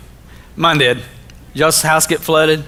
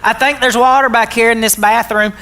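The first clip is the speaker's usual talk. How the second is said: imitating his wife; 3 semitones higher than usual. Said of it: "'cause that's how she talks".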